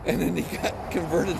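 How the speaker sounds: high, loud, broken by laughs; amused retelling. Retold or imitated. Man retelling his friend's prophet comparison, laughing and loud.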